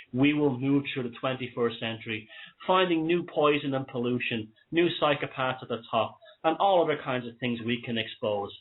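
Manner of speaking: wheezing asthmatic breathing; talking through an asthma wheeze; wheezy voice. Real, not acted. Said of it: "I've just been told that I'm wheezing".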